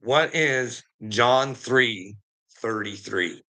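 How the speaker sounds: every word spelled out slowly for the phone; slow and deliberate so Siri catches it; talking to a voice assistant slowly; slow dictation to Siri. Shown as a demonstration. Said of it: "Hey, Siri".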